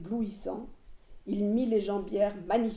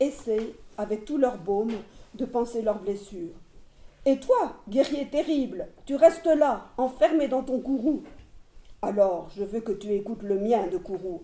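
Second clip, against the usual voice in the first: pleading. Acted. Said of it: "Il le dit d'une voix qui suppliait".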